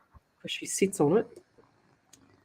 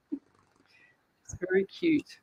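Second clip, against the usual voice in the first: a soft, slow whisper, higher; 11 semitones higher, 4 dB quieter, much slower than usual. Real, not acted. Whispering to viewers about the sleeping cat, soft and slow. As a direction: whisper so the cat stays asleep.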